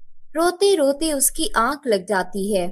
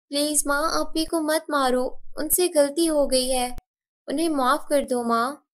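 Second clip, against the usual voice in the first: put-on pleading child; 4 semitones higher than usual. Younger sister begging stepmother to stop, pleading. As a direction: beg to spare her sister.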